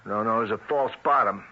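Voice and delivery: eager no, no, there it is; excited discovery. Acted. Agent excited on finding the false bottom.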